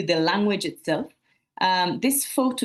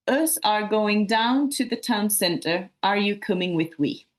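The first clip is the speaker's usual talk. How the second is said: slow careful read; 2 semitones higher than usual. Shown as a demonstration. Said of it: "a little bit closer to standard English".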